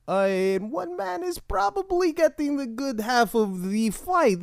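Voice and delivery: a deliberately shaky fake Russian accent; bad Russian accent. Comedian doing a bad Russian accent for a Halloween bit. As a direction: ham up a shitty Russian accent. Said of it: "disguise my voice with a arguably shitty Russian accent".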